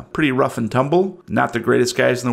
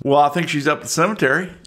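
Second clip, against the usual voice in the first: Southern yokel; 4 semitones higher, faster than usual. Acted. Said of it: "I'm from the South".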